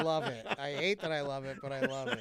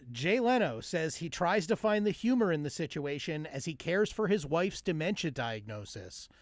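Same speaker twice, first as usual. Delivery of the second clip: even mock newscast delivery; joke news read. Reading a governor headline to the co-host, straight mock news read.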